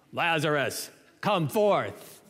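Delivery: booming announcer call to the tomb; deep radio announcer voice. Pretend. Jesus calling Lazarus from the tomb, mock announcer boom. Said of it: "Hear my deep voice?".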